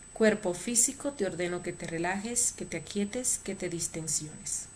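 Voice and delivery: commanding drill-sergeant voice, fading at the end; military voice. Shown as a demonstration. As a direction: give the order like a soldier. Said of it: "con voz militar tres veces".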